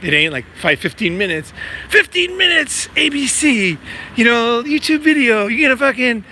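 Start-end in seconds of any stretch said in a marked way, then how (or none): 1.9-2.9 high, slow and mocking. Mocking a quick-fix promise, high sarcastic voice. 3.0-6.2 mock the quick fix in a high voice. Mocking the quick-fix YouTube video, high sarcastic voice.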